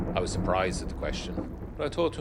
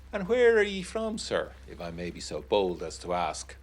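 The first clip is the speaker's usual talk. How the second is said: prying mock politeness. Meathall presses the narrator.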